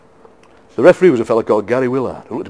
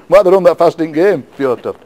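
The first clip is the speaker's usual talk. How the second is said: raised crowd heckle, louder; crowd shouting; 6 semitones higher, 6 dB louder than usual. Retold or imitated. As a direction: shout it from the stands at the player. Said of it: "They're all shouting".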